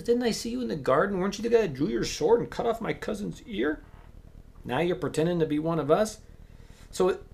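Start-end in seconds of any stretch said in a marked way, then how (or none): 0.0-1.2 high, loud challenge; a servant calling out a stranger by the fire; accusing. Acted. Bystander accuses Peter. 1.2-6.2 put-on a sharp-tongued servant girl calling him out; accusing bystander.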